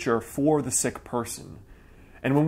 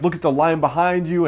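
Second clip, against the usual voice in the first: mildly louder irritated snap; annoyed toll clerk; 3 semitones higher, 5 dB louder than usual. Retold or imitated. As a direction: retell the clerk's huffy complaint, a bit louder. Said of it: "huffed and she got angry".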